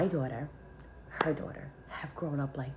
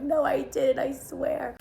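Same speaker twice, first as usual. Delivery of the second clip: high, loud retold protest; 11 semitones higher, 6 dB louder, slower than usual. Younger sister defending herself to her angry sister, protesting. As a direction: plead innocence in a raised, high voice.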